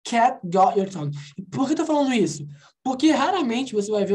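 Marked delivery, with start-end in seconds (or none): 0.0-1.1 "Cat got your tongue" with the T's unreleased; linked, slightly slow demo; dropped T. Shown as a demonstration. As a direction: leave the T of "got" unspoken. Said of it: "eu não falei?".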